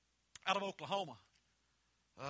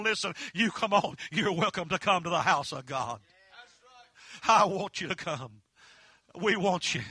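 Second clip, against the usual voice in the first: pleading invitation; 10 dB louder than usual. Pretend. Preacher voicing a loving invitation.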